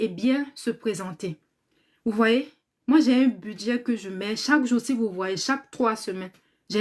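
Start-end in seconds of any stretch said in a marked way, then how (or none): none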